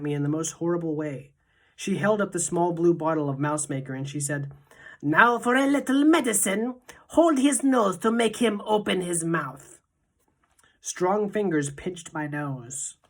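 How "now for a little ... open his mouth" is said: high, loud, relishing witch voice; gloating witch. A narrator's reading. Witch leader gloating over the boy before the potion. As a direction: savour it like a cruel treat.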